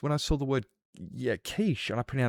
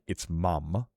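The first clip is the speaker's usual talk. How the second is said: mock correction; 3 semitones lower than usual. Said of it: "I'm not gonna say".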